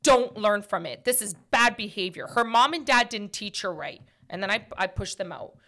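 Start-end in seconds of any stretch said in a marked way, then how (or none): 0.0-4.0 stern lesson. Retold or imitated. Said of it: "I said it loud".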